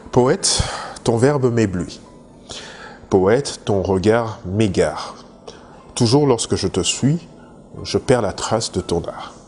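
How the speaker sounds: measured poetry reading with pauses between lines; poem recitation. Acted. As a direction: recite it line by line, lightly declaimed. Reads out a poem extract. (récitation de poème, posée, vers par vers)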